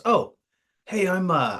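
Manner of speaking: high, loud, breezy officer greeting; chummy officer voice. Retold or imitated. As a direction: play the overly casual commander. Commander voiced in army story.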